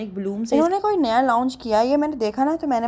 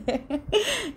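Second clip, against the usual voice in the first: high giggle; 11 semitones higher than usual. Real, not acted. Laughs at husband's demand.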